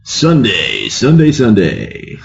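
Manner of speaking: booming announcer drawing out each word; slow hyped monster truck rally call. Retold or imitated. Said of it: "one of those monster truck announcers".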